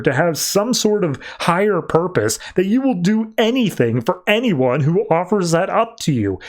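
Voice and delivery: acted argument, pitched high then easing down; heated rebuttal. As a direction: argue it insistently, as if quoting someone fed up. Acted argument, Deadshot rebuts Manta.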